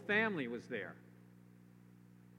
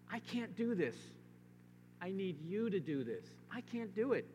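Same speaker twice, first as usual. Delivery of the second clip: high, helpless admission to God; helpless plea; 5 semitones higher than usual. Acted. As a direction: sound like you've given up. Voicing a helpless prayer.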